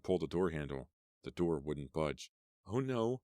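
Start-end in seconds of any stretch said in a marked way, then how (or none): 2.7-3.2 alarmed. Acted. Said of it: "she whispered".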